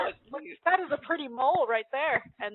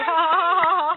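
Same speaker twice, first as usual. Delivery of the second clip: loud, high burst of laughter; real laughter; 7 semitones higher, 9 dB louder, faster than usual. Real, not acted. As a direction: crack up at the page. Laughing at the comic.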